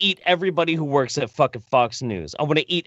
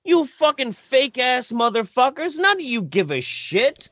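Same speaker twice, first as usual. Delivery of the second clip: unhinged talk-show rant against the elite; Alex Jones rant; 5 semitones higher than usual. Pretend. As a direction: rail at them like a conspiracy radio host. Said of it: "Is he going Alex Jones on us?".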